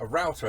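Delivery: router said as "row-ter"; router as in woodworking. Shown as a demonstration. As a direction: router to rhyme with "outer". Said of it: "as I know it".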